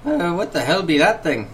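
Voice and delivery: in-character Rorik. Acted. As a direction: ask it as a puzzled game character. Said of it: "Rorik leans over to Lily and just says".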